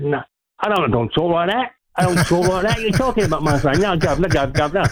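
lightly put-on, bad Cockney; bad Cockney accent. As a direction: Scouser having a go at Cockney. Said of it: "your Cockney accent is as bad".

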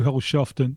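Holschoften said in a Swedish way; Swedish pronunciation. Shown as a demonstration. Guest shows off to host what impressed a journalist, Swedish pronunciation. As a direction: say Holschoften as a Swede would. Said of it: "I knew how to do".

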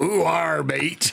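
a lightly done, clumsy Liverpool taxi-driver voice; a Liverpool accent that slides toward a pirate's; bad Scouse accent. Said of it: "He sounds like a pirate from Devon".

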